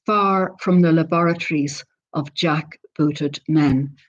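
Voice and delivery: measured poetry recital, phrase by phrase; poem reading. Acted. Poet reads the English translation to an online audience, measured poem reading. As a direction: read it out deliberately, pausing between the images.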